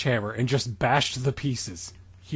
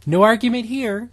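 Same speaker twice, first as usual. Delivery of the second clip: mock heroic line; 8 semitones higher, 6 dB louder than usual. Dramatic reading of fanfic quote.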